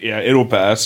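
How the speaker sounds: imitating Kratos. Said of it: "Kratos is like".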